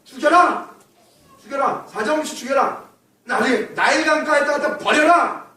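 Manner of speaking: commanding shout of a king; a cruel Pharaoh ordering every baby boy killed; Pharaoh's command. Acted. Pharaoh's order to kill boys.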